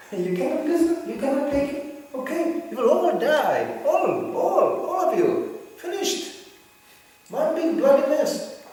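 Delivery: high, loud, slow verdict; mock stern Krishna. Krishna telling all at Kurukshetra they will die, loud high mock verdict. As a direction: pronounce doom like a stern god.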